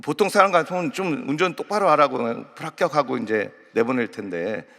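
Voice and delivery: ordinary talk, nothing marked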